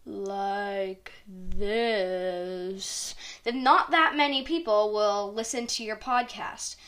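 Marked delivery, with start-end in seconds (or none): 0.1-3.2 dry, rasping, lower voice. Shown as a demonstration. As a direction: rasp it out dry as sand. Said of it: "a voice as dry as sand, like this".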